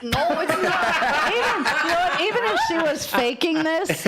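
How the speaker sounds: talking through a laugh, voice lifted; words bubbling with laughter. Real, not acted. Host laughing to co-hosts about the clip, laughing.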